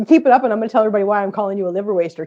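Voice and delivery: fast playful warning; teasing threat. Real, not acted. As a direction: rattle off the mock threat quickly.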